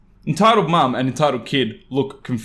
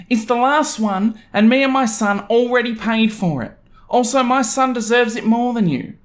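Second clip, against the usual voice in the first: entitled mum; 10 semitones higher than usual. Acted. Entitled mum claims the card.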